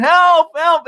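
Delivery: high mocking yell; mock scream for help. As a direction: screech it like the dragged hippie. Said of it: "He's screaming".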